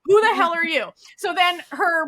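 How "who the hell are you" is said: a higher, louder yell of disbelief; shocked yell. Retold or imitated. Woman yelling at the stranger in her bed, shocked and loud. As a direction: demand to know who he is, loudly.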